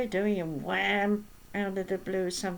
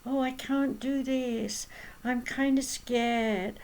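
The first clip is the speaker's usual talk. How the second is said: put-on slow, timid, childlike voice, pitched higher; childish whine; 3 semitones higher, slower than usual. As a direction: play a scared child who won't try. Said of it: "carry on like they're a child".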